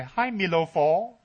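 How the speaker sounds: drawn-out, high teasing call; slow sing-song greeting that lifts high; mock greeting. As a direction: stretch it out like a teasing hello. Teasing imagined greeting in a scene.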